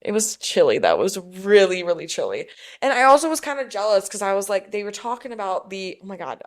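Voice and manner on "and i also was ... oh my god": country accent. Real, not acted. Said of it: "why am I talking in a country accent?".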